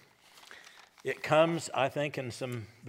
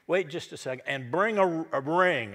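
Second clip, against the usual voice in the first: eager father; 4 semitones higher, 6 dB louder than usual. Acted. Father interrupts, orders ring.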